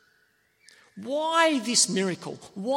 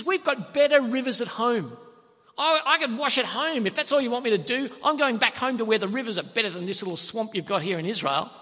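a proud general insulted by the prophet's order; incensed general; 2 semitones higher than usual. Acted. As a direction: scoff at the little swamp. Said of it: "And the guy's incensed".

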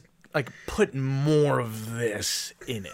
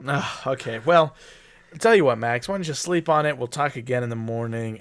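mock exec brush-off; 6 dB louder than usual. Exec dismissing Max kindly.

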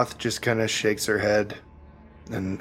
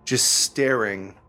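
measured narration with suspenseful pauses; game master's scene-setting. A narrator's reading. Game master describing the burning Underdark village, measured and suspenseful. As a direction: unfold the scene piece by piece.

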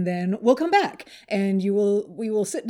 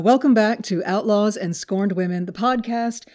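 slightly put-on customer service greeting; a touch of polished host voice; phone voice; 4 dB louder than usual. Real, not acted. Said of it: "you had a phone voice".

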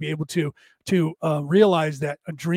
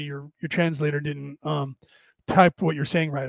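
ordinary delivery

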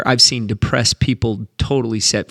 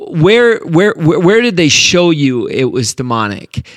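insistent challenge; 4 semitones higher, 6 dB louder than usual. Real, not acted. Challenging critics, demanding proof.

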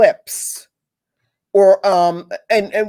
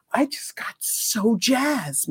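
whisper; 3 semitones higher, 6 dB quieter, slower than usual. Real, not acted. Excited confession to viewers.

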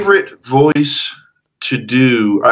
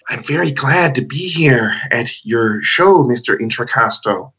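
Peter Lorre voice. Acted. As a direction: creep it out like a noir heavy. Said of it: "my Peter Lorre one".

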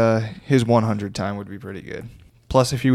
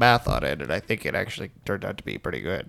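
nerd voice; 4 semitones lower, faster than usual. Acted. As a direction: play the nerd. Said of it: "what's that voice you just did?".

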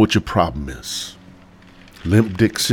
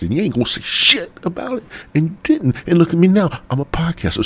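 much higher, gloating victory cry; triumphant gloating; 11 semitones higher, faster than usual. Real, not acted. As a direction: crow about proving them wrong. Boasting to doubters, pitch soaring.

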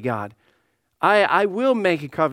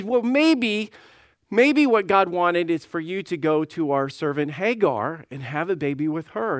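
Sarah suggesting. Retold or imitated. Pastor voices Sarah's suggestion.

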